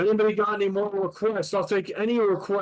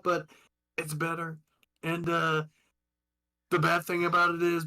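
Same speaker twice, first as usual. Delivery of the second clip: lightly voiced Trump rambling; a hint of Trump boasting; Donald Trump impression. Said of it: "that was Donald Trump".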